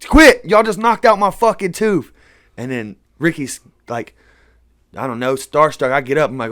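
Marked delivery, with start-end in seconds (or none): 0.1-2.1 sudden high shouted "Quit!"; mock pained yell from the bathroom floor; retold yell. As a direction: yell it in pain and outrage. Ty yelling after tooth knocked out.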